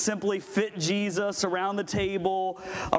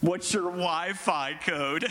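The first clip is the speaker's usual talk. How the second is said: laughing repeat; slower than usual. Real, not acted. Repeating an audience joke.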